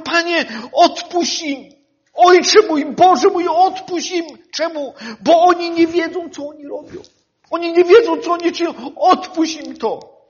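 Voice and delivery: hammed-up voiced plea of Jesus on the cross; Jesus pleading. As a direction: cry out to the Father for mercy.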